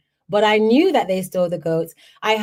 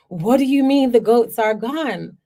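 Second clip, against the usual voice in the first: alarmed; 3 semitones higher, 3 dB louder than usual. Retold or imitated. Family rushing out in alarm.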